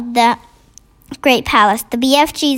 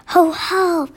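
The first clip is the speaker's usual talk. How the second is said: a lightly higher giant whisper; gentle giant voice; 5 semitones higher than usual. A narrator's reading. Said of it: "he whispered".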